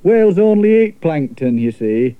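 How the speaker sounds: lightly voiced sensible lad; Edward, knowing boy. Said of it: "said Edward".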